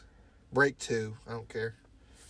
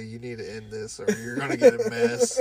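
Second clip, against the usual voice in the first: mock urgent warning; 10 semitones higher, 4 dB louder than usual. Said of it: "turn to the guy and say".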